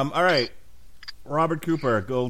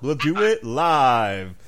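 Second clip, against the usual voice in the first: drawn-out mock rant; 3 semitones higher, 6 dB louder, much slower than usual. Repeats the host meltdown line.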